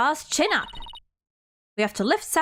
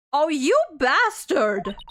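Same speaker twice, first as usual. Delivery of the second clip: slow, drawn-out outraged cry; 3 semitones higher, 3 dB louder, much slower than usual. Acted. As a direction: spit out the insult slowly. Outraged at the prosecutor.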